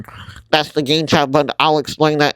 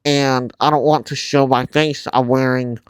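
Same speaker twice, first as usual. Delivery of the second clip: muffled through a mask. Real, not acted. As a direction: voice damped by a face mask. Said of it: "I sound muffled, because I am wearing a mask".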